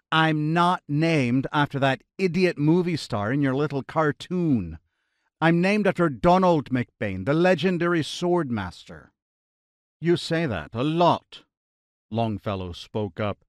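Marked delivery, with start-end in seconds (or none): 0.1-9.1 huffy faint Irish. Acted. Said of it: "McBain huffed". 10.0-11.4 put-on British accent. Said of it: "his British accent clear and strong".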